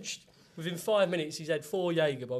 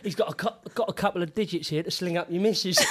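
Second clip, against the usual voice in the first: mock shout; 3 dB louder than usual. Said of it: "his exact words".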